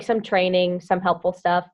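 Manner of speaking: talking around hair in the mouth; words slightly caught on hair. Real, not acted. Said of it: "Sorry, I have hair in my mouth".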